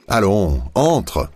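calling out high and cheerfully into the boat; a bright, laughing invitation to get in. A narrator's reading. Laurent calling Camille into the boat, laughing. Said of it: "a crié Laurent en riant".

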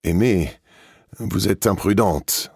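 very loud. Acted. Old lady testing if the deaf guest hears her, loud and slow. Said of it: "a dit très fort mademoiselle de Percy".

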